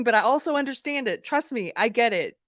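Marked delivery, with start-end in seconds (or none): none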